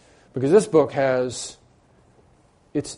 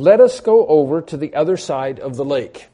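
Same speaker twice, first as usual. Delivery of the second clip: louder reading; 7 dB louder than usual. Shown as a demonstration. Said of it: "repeats the line".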